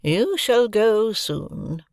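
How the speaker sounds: aloud. A narrator's reading. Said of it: "said Miss Havisham aloud".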